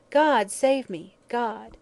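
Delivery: slow, high wail, falling away at the end; wild cry. A narrator's reading. Dying woman's echoing last plea, wild cry. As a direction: cry it out long and high, then fade. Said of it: "that wild cry".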